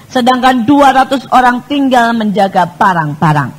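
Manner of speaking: firm, declamatory Bible reading; scripture reading. Real, not acted. Preacher reading David's story to congregation, declamatory scripture reading. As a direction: read the verse out strongly to the congregation.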